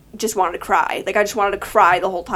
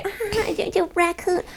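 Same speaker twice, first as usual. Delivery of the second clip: teasing jab; 8 semitones higher, 7 dB quieter than usual. Pretend. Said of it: "Don't come up to me ever and say".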